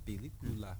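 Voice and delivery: Película in Spanish vowels, pe-li-CU-la; Spanish word of the day. Shown as a demonstration. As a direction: say Película the Spanish way, clear syllables. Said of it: "La palabra para hoy es".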